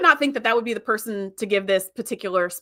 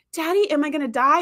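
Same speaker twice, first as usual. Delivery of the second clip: lightly voiced child, pitched higher; dying little daughter; 5 semitones higher than usual. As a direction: imitate a daughter's plaintive question to Daddy. Dying daughter asks her father.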